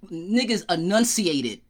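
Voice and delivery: each syllable of enunciated spelled out slowly; slow, deliberate enunciation. Shown as a demonstration. To a friend on old hip hop, slow crisp enunciation. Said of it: "I was raised on diction hip hop".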